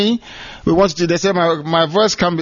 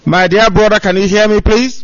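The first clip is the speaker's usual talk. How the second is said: calling out; 3 semitones higher, 5 dB louder than usual. Real, not acted. Calling to a caller on phone.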